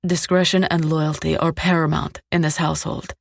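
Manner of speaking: "Discretion and loyalty are paramount", each word firmly weighted; emphasizing each word. A narrator's reading. Captor stating house rules, stressing each word of "Discretion and loyalty". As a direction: land "Discretion", "loyalty", "paramount" like hammer strikes. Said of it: "emphasizing each word like a hammer striking an anvil".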